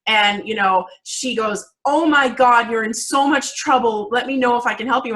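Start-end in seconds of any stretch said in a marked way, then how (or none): 1.8-5.1 imitating upset mom. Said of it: "And she starts crying".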